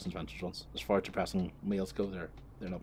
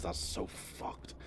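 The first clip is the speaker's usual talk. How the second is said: slow, hushed and appalled; appalled whisper; 3 semitones lower, 10 dB quieter, much slower than usual. Real, not acted. Muttering to viewers about the driveway incident, appalled. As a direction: let it fall out slowly under the breath.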